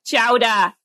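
Boston accent, dropped r. Shown as a demonstration. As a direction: say chowder the Boston way. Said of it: "They have to say it in a Boston accent".

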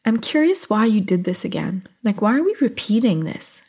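lightly voiced gentle curiosity; curious self-talk. Coach showing listeners the kinder reframe, gently curious. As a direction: ask yourself kindly, mild wonder. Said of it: "you could switch it to".

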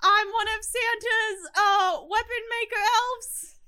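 a small weapon maker presents himself; proud little elf. Acted. GM voices Fudge the elf.

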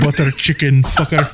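put-on Indian-accented swearing; mock Indian accent. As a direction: echo the joke in an Indian accent. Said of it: "in a very thick Indian accent".

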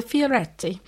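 put-on a light, playful stab at an Italian accent on fioretti; lightly put-on Italian accent for the silk's name; bad Italian accent. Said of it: "terrible Italian accent".

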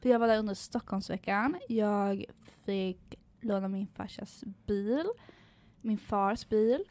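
slow, drawling put-on Stockholmer; Stockholm accent. Stockholmer telling about dad's car, mock Stockholm accent. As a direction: imitate a Stockholmer, stretching the words. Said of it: "komma in i rollen som stockholmare".

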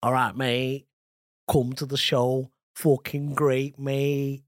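put-on Manchester accent, slow and broad; Mancunian accent. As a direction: lay on a thick Manchester accent. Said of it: "your Mancunian accent".

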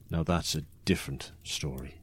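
hushed whisper, conspiratorial; whispered aside. Acted. Storyteller whispering an ominous aside to his listeners. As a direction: drop to a secret whisper.

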